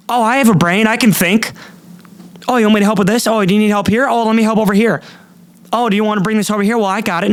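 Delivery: high, loud mocking clerk voice; mock overfriendly clerk. Mocking a too-friendly store clerk, high and loud. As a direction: ham up a pushy helper, loud and high.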